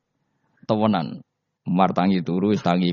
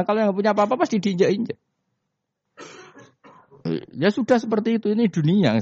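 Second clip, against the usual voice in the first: emphatic rise; 12 semitones higher than usual. Real, not acted. Preacher rises emphatically.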